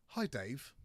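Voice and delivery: lightly attempted posh English greeting. Shown as a demonstration. Reading his email to Dave, half-hearted posh English. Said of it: "I wish I could do a posh voice".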